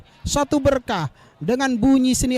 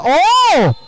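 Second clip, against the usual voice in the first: surprised; 6 semitones higher, 6 dB louder than usual. Real, not acted. Near chance in play.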